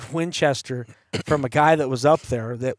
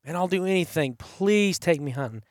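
pleading; 3 semitones higher, 3 dB quieter than usual. Retold or imitated. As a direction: plead lightly, as if quoting an eager asker. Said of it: "he begged and begged".

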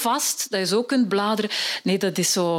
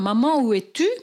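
put-on calling child. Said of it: "Dat kind blijft maar roepen".

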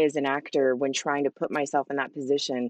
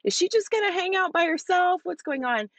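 puzzled asking; 12 semitones higher than usual. Retold or imitated. Retold fans wondering about her.

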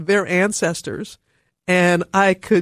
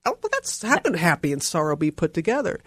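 puzzled. Retold or imitated. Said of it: "I remember thinking".

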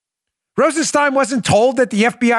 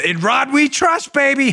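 slow, sing-song mock chant; mocking slogan; 5 semitones higher than usual. Real, not acted. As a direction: sneer at the slogan. Mocking catchphrase.

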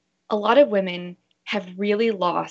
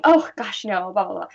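mock dismissive. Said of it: "instead of saying".

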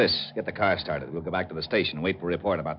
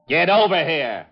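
loud and higher, impatient; angry order; 10 semitones higher, 8 dB louder than usual. Acted. Lieutenant loses patience with dim Otis, loud. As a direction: bark him over.

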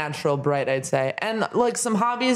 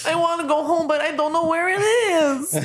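put-on lost childlike voice; 10 semitones higher than usual. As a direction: whine it like a lost kid. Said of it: "the age-old fraud of calling someone and being like".

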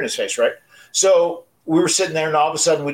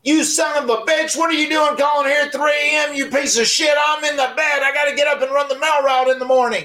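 dad's furious shout; 13 semitones higher than usual. Retold or imitated. Dad woken at three AM yells at the caller, furious and high-pitched. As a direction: scream at the caller who woke you. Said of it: "And he goes".

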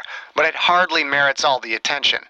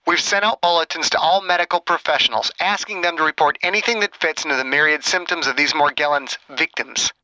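irate doctor over the phone, pitch climbing; angered; 5 semitones higher than usual. Acted. Chang insists Margaret report to him, angered. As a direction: assert authority, rising higher towards the end. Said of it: "The question seemed to anger Chen".

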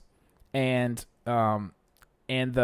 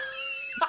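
high laugh; 11 dB quieter than usual. Real, not acted. Surprised laugh at co-host.

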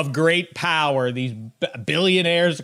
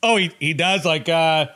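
mocking; 4 semitones higher than usual. Mocking the owners' reply.

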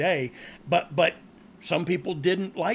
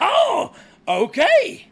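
laughing "oh", high, loud and slow; laughing shout; 5 dB louder, much slower than usual. Real, not acted. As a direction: cracks up and yells it out. Laugh burst reaction.

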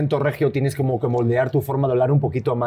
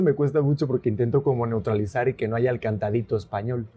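careful, neutralized Spanish accent; 2 semitones lower, 3 dB quieter than usual. Real, not acted. Spaniard explaining his effort to the host, neutralized accent. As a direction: speak Spanish carefully, without the Spanish lilt. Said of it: "ahí neutralizaste bien".

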